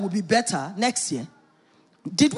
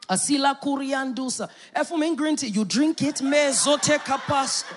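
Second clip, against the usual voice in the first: mock grumble. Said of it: "you're like".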